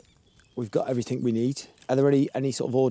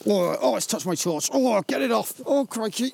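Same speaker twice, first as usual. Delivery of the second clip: high, squealing panic at the slimy heart; panicked squeals; 11 semitones higher than usual. Real, not acted. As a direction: shriek it in genuine disgust and fright.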